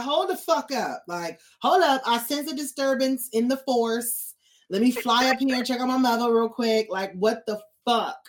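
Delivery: playing the dragon checking on his mother; voicing Drogon. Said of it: "He came through and was like".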